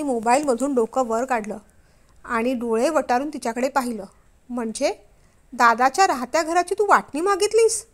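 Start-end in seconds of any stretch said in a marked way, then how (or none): 4.5-7.9 husband, higher and louder, shocked anger; raised angry voice. Acted. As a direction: raise the voice in disbelief. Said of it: "त्यांचा आवाज चढलेला". (चढलेल्या आवाजात रागाने)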